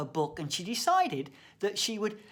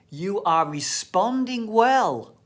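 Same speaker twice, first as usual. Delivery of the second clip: reassuring doctor; 3 semitones higher, 7 dB louder than usual. Retold or imitated. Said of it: "I like the sound of that".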